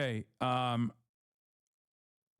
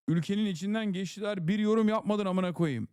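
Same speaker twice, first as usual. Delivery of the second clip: mock angry read; 6 semitones higher, 3 dB louder than usual. Reading angry Turkish chat message.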